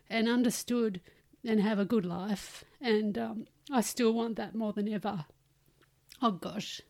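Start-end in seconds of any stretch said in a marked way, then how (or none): 2.8-6.8 tearful, voice catching; fighting back tears; crying. Real, not acted. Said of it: "Sorry, I'm crying".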